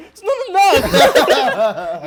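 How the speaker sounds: slow, high, loud laughing mimic; mocking echo. Friend mocks his emotional outburst, laughing. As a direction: stretch it out, teasing his outburst. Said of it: "you can hear he's getting emotional".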